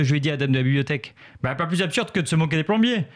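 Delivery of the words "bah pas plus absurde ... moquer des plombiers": lightly voiced librarian; imitating the librarian. Librarian answering Benoît back, lightly imitated. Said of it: "je me suis trompé de voix".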